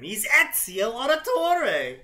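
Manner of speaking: sarcastic grand unveiling of the hero; mock excitement. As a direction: oversell the reveal like a breathless fan. Mock-reading the fic's big reveal.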